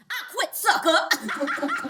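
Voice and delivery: slow, laughing kiss-off; slow gleeful laughing "I quit". Acted. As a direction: savour each word, laughing. Quitting job by phone.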